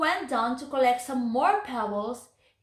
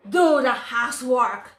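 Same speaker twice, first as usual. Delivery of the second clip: louder, curt command; bossy order; 6 dB louder than usual. Acted. Witch ordering Gretel to do housework, bossy. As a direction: order her about like a mean witch.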